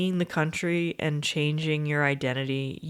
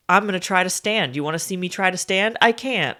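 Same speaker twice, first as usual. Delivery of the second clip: mock dramatic; 4 dB louder, faster than usual. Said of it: "he's like".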